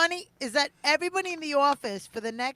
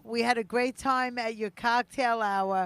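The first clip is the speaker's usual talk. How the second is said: mock guest note; 3 semitones lower, slower than usual. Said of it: "They go".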